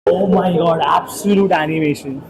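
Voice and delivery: loud, drawn-out excitement; excited. Real, not acted. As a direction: gush about it loudly.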